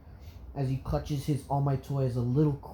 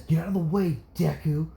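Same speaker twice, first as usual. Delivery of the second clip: pitched-up, forceful warning; threatening child bully; 3 semitones higher than usual. Acted. Bakugo threatens Izuku, bullying threat. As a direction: warn him off with menace.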